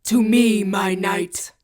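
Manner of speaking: rally the knight with a king's shout; dual-voiced shout. A narrator's reading. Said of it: "he shouts".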